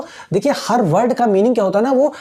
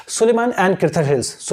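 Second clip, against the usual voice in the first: slow recall demo; 2 semitones lower, much slower than usual. Shown as a demonstration. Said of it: "आप start करें समझने को कि".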